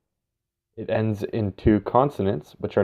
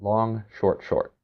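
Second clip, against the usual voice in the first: "Long" held, "short, short" clipped quick; rhythm of a dactyl; 4 dB quieter, slower than usual. Shown as a demonstration. Teacher demonstrating the dactyl rhythm to students, held then clipped. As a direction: beat out "Long, short, short" like a drum pattern. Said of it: "composed of a long followed by two shorts".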